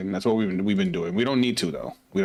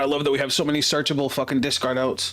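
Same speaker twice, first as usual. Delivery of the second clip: excited planning; 4 semitones higher than usual. Real, not acted. Combo lines up in game.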